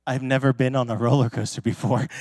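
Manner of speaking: imitating a scared kid, low and quiet; mild fearful confession. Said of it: "with this straight up fear in his eyes".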